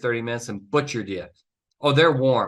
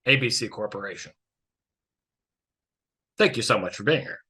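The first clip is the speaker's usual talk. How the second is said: mock lawyer opening. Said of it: "And you're gonna waste it".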